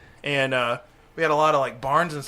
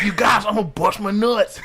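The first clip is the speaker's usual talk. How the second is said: higher, mock-worried cry; panicky friend imitation; 6 semitones higher, 4 dB louder than usual. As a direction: call it out like a nervous kid before a jump. Imitating friend before jumping off.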